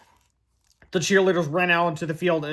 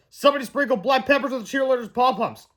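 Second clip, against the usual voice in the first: indignant fan; 6 semitones higher than usual. Acted. Fan accusing.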